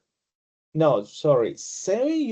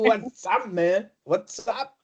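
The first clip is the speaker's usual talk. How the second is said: higher, laid-back dude greeting; imitating a casual buddy; 6 semitones higher than usual. Teacher imitates a friend's greeting, higher and breezy. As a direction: play a friend saying hi, light and loose.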